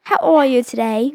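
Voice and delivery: playful mock-Australian greeting; light put-on Australian accent; attempted Australian accent. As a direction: ask it in amateur Australian. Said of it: "Australian. I know that".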